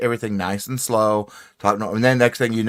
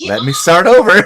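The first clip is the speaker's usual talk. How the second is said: loud, high cry of frustration; mock exasperated shout; 10 semitones higher, 11 dB louder than usual. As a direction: call it out high and loud, playing fed up. Acting out frustration at spoiled take.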